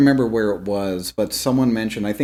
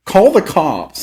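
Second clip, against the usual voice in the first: urgent shout; 8 semitones higher, 6 dB louder, slower than usual. Retold or imitated. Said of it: "he's just like".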